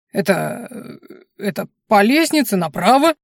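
hesitant start, then a contented smile in the voice; lightly voiced, satisfied host; pleased smile. A narrator's reading. Tavern host directing guests to the stairs, pleased. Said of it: "с довольной улыбкой ответил хозяин".

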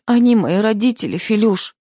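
wife begs her husband Филюш through sobs, high and tearful; sobbing. A narrator's reading. Sob it out, pleading. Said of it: "всхлипнула я".

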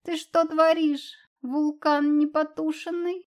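yelling. A narrator's reading. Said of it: "тут же заорал".

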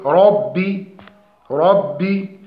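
slow ربي with heavy r and unexaggerated double b; correct doubled ba. Shown as a demonstration. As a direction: say ربي with a full short i, no pause on the b. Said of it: "متحرك بالكسر وعدم المبالغة". (ربي براء مفخمة وباء مشددة دون مبالغة)

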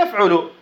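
"يفعل" said as yaf'ulu; middle vowel damma. Shown as a demonstration. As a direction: say "يفعل" with "u" after the ayn. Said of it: "ومضموما في المضارع".

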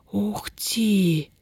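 a hushed, pained gasp of a whisper. A narrator's reading. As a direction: breathe it out in shock. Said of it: "послышалось лишь болезненное". (болезненный шёпот)

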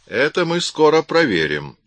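high and loud menace; menacing. A narrator's reading. Man threatening the suspect, menacing. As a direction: promise trouble. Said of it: "угрожающе произнёс".

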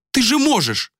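high pleading cry; begging, almost breaking; desperate plea. A narrator's reading. Malika begging Esh for help, high and desperate.

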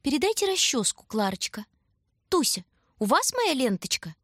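high, prim little doll voices; dolls chattering. A narrator's reading. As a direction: chatter like dainty porcelain dolls. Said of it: "только и слышалось".

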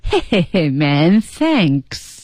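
imitated chuckle into "Hey man, thanks"; slow mock laugh on "hey", then thanks. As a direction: demonstrate a laughing thank-you. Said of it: "笑着说的啊".

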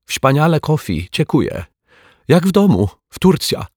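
high-pitched foreign guest voice; exclaiming Turk in broken Polish, high voice; Turkish visitor. Acted. Turk's thanks in broken Polish.

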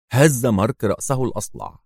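ordinary delivery, nothing marked

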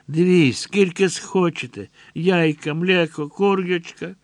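a soldier listing food in broken Ukrainian; German soldier. A narrator's reading.

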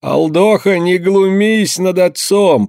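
high, slow reproach; the elder rebuking Evdokim for mocking his father; stern rebuke. A narrator's reading. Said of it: "попытался опять остановить".

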